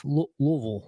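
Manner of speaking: Louisville mumbled as LUV-l, like food in mouth; Louisville said mushy, LUV-l. Shown as a demonstration. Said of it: "you gotta say it like you got food in your mouth".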